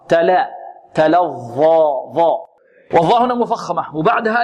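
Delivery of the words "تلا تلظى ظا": تلظى with a thin ل, then a heavy ظا; light lam. Shown as a demonstration. Tajweed teacher modelling the correct light ل in تلظى. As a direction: keep the ل of تلا light and fill out the ظ. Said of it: "إذن هنا مرققة".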